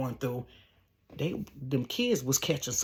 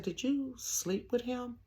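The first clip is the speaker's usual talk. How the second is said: hushed question; 8 semitones higher, 9 dB quieter, slower than usual. Retold or imitated. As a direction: ask it quietly, almost afraid to. Sister asking a blunt question.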